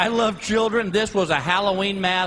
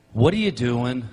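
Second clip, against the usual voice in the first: mock indignant woman; 9 semitones lower than usual. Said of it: "it goes just like this".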